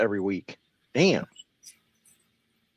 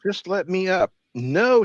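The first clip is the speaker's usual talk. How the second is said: high mocking quote then firm no; mock his plea, then shoot it down; higher-pitched mocking retort; mock exchange; 9 semitones higher, slower than usual. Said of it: "she said".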